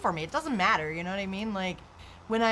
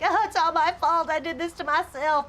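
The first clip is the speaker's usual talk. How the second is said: mock self-blame; 8 semitones higher, 4 dB louder than usual. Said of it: "They're like".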